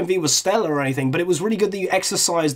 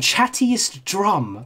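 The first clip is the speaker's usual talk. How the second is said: savored slowly; 4 semitones higher, much slower than usual. Real, not acted. Savoring the creator's name.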